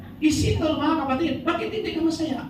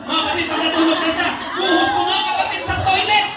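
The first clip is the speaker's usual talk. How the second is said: laughing shout; 3 semitones higher, 3 dB louder, faster than usual. Real, not acted. Laughing confession.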